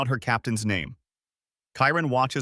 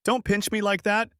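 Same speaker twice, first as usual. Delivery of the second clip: grumbling; 9 semitones higher than usual. A narrator's reading. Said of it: "the girl grumbles".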